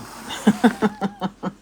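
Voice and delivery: short run of chuckles; real laugh at the idea; dismissive laugh. Real, not acted. Laughing at those predicting Kali Yuga, dismissive chuckle. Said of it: "And I laugh".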